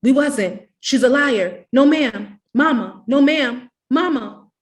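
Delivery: high, loud, desperate pleading; children shrieking denials at the mother with the switch. A narrator's reading. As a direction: beg her not to whip you. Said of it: "We began to shriek".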